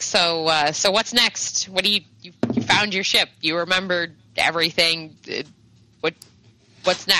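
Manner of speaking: lightly voiced, hesitant old woman; weirded-out old lady. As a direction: ask haltingly as a puzzled old lady. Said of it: "she's like".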